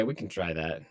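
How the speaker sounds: metallic, glitchy robotic audio; robotic voice through broken audio. Real, not acted. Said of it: "you sound robotic".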